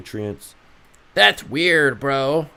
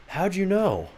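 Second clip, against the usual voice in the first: higher squeaky mock disbelief; mock surprise; 10 semitones higher, 3 dB quieter, slower than usual. Streamer pretending to be caught, mock surprised squeak. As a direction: act caught out.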